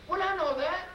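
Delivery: 3 forgive him fondly; 4 high-voiced wife telling husband she knew; 1 wife's tender reply. Wife answers love.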